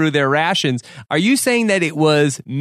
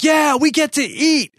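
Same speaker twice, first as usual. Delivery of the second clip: much higher excited mock cheer; mock eager eater; 11 semitones higher than usual. Host mocking John arriving at the new camp, high mock glee. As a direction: imitate a hungry guy thrilled about food. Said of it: "he was like".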